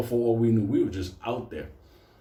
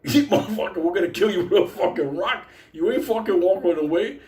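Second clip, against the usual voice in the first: higher, mock-menacing inner threat; 5 semitones higher than usual. To the guide who abandoned them, mock threatening. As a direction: threaten him in your head, half laughing.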